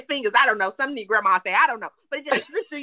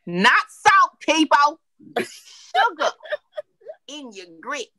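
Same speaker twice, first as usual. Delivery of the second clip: emphatic correction; 3 semitones higher, 4 dB louder, much slower than usual. Real, not acted. Cook warning viewers off salt, loud and emphatic. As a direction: firmly correct the audience. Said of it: "insisting on sugar, not salt".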